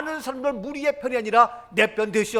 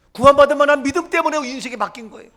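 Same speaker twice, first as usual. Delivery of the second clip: preaching climax; 4 semitones higher, 8 dB louder, faster than usual. Real, not acted. Preaching climax, louder, faster.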